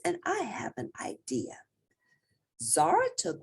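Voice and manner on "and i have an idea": whispered secret idea. Acted. Zara whispering her plan to Moose.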